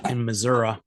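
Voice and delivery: put-on local Missouri accent, ending in "uh"; Southern accent. Co-host saying where it happens, Southern accent.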